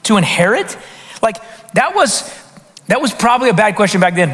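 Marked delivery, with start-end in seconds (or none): 0.0-0.8 slow mocking reading; slow, drawn-out quote. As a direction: stretch it out slowly. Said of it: "So this question".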